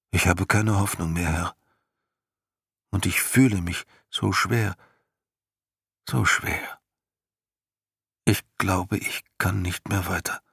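lightly voiced, tired and hopeless horse; a hint of a despairing horse pleading to turn back; weary horse Artax. A narrator's reading. Horse Artax begs his master to turn back, weary and hopeless. Horse tells of growing sadness.

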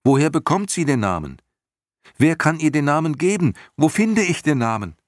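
high, loud, rapid questioning; Atreju calling urgently. A narrator's reading. Hero begging Morla for the name, urgent high shouting. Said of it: "rief Atreo".

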